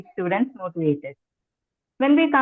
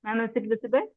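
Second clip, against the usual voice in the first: barely audible; 7 dB quieter, faster than usual. Real, not acted. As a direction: ask too softly to be heard. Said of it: "please raise your voice".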